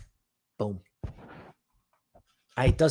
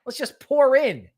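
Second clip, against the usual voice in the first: eager hype; 5 semitones higher than usual. Retold or imitated. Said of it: "The eighteen-year-old's like".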